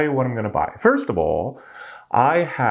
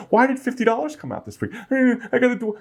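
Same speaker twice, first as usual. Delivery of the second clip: confused viewer; 13 semitones higher, faster than usual. Retold or imitated. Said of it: "accounting on your regular checking account".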